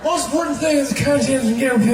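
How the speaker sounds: loud, running-together mumble; rambling presidential caricature that loses its way; Joe Biden. Acted. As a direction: mumble the words into one another, projected. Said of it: "that weird mumbling thing".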